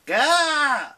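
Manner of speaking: sudden high startled yell; a loud, panicked "Gah!" out of nowhere. Acted. Leo caught off guard, yelling in alarm. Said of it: "Leo yelled".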